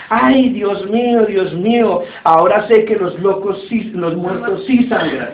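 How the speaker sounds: drawn-out "Ay, Dios mío" wail, played for laughs; mild mock cry. Little madman crying out at his bleeding finger, mild mock cry. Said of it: "el loquito gritó y dijo".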